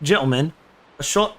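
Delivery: halting attempt at Aussie; failed Australian accent. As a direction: try an Australian accent and miss. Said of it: "that's not even Aussie".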